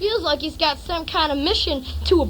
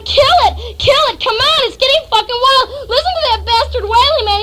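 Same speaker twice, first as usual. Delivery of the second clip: high-pitched acted shouting; frantic yelling; 6 semitones higher, 3 dB louder than usual. Narrator egging on the cat killing, yelling. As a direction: urge him on in a raised, urgent yell. Acted screaming during the chase.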